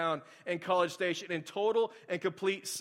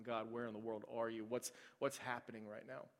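quiet retold plea, much softer; hushed prayer; 5 semitones lower, 12 dB quieter than usual. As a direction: ask God in a low, worn-out voice. Retold desperate prayer in silence.

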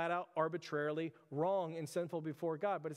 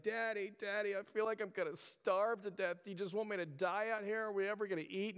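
lightly voiced complaining little boy; mock-whine like a tired, hungry kid; a hint of a child begging dad for food; whiny kid; 3 semitones higher than usual. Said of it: "kinda complaining a little bit like that".

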